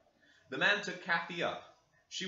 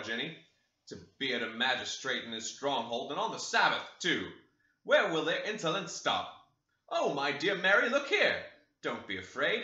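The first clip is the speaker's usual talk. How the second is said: put-on pompous old magistrate; 4 dB louder than usual. Mr Linton pompous speech.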